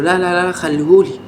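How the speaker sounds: imitating a defender waving off his partner; Yasser calling for the ball. Fan imitating Yasser telling Hany to leave the ball. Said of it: "فياسر قال له".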